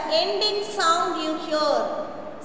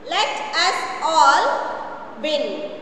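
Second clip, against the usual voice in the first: slow reading aloud; 3 dB louder, slower than usual. Shown as a demonstration. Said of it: "Once again".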